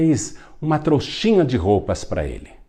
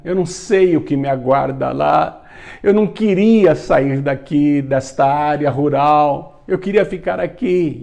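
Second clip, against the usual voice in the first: put-on high, tearful boyish pleading, building louder; acted sobbing; 4 semitones higher, 3 dB louder than usual. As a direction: plead as if lightly crying, pitch held high. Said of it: "soluçando". (choro encenado, lamentoso)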